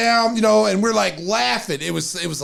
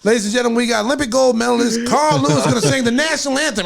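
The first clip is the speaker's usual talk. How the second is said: mock announcer; 5 semitones higher than usual. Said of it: "he's like".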